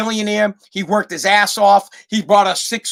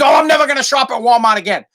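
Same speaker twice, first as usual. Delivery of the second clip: quick, higher indignant dad; mock indignation; 4 semitones higher, 4 dB louder, faster than usual. Father vows to boycott Walmart, mock indignation. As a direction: imitate an upset father's rushed vow.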